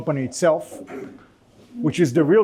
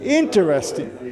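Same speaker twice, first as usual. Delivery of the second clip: slow, drawn-out "Interesting". Shown as a demonstration. Lecturer demonstrating the intonation of the word. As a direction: stretch out "Interesting" slowly. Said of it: "pronounced as I just said".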